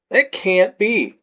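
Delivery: slow, slurred disbelief; slurring drunk. A narrator's reading. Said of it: "my words slurring some".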